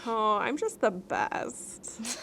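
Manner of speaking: slow, exaggerated fake cheer; fake cheerful. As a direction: oversell how great you are. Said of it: "How convincing are we".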